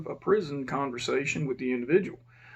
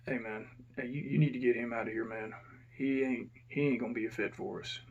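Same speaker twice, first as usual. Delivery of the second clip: quiet; 2 semitones lower, 6 dB quieter than usual. Retold or imitated. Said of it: "The guy got a little quiet".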